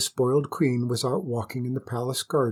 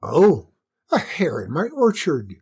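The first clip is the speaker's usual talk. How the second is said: surprised; 3 semitones higher, 5 dB louder than usual. Acted. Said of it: "She stopped carrying on and said".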